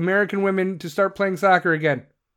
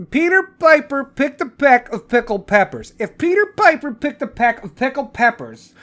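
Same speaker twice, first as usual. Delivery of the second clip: tongue twister; 4 semitones higher than usual. Shown as a demonstration. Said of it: "So I start like this".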